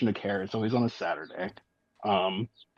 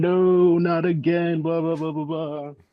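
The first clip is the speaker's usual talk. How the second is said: high, mock screaming devil voice. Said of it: "you can hear the devil screaming".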